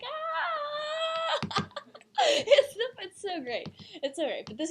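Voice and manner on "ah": very high squealing cry; imitated excited shriek. Voicing Patrick Star rushing the Pope, very high shriek. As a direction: shriek like a cartoon starfish. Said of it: "he's like".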